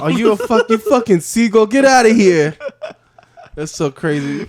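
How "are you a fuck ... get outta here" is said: loud, high mock outrage; mock insult. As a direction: bark it out as a hammed-up put-down. Acting out animals trading insults.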